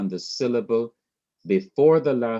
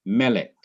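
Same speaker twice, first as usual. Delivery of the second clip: melek with the stress on me, falling away on lek; stress on first syllable. Shown as a demonstration. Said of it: "That syllable is me".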